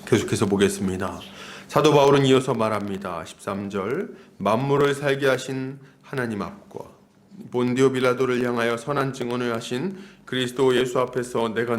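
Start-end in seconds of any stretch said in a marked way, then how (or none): none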